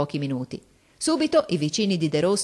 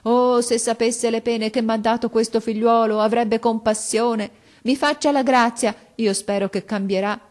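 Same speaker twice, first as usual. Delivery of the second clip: higher, louder, tearful begging; mother weeping as she pleads for her son; praying and weeping; 4 semitones higher, 5 dB louder than usual. A narrator's reading. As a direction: plead through tears, near breaking. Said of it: "pregando e piangendo".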